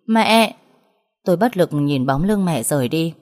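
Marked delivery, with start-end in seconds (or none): 0.1-0.6 calling out. A narrator's reading. Daughter calling after leaving mother.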